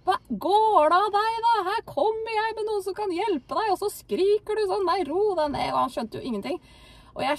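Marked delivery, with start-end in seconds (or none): 0.1-5.7 high-pitched bewildered yell; man yelling. Retold or imitated. New convert yelling at the raging woman to calm down. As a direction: yell at her, baffled and annoyed. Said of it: "han skreik til dama da".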